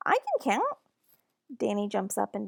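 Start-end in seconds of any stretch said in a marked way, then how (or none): 0.1-0.8 put-on high breathy child's whisper. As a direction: whisper it like a little kid. Danny whispers his reply.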